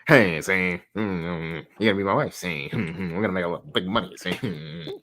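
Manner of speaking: put-on old-timey gangster voice, mm-ing between phrases; light sleazy 1920s villain. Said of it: "the nineteen twenties villain voice".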